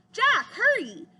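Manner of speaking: high, loud hurry-up call; urgent call. A narrator's reading. Annie urges Jack from afar.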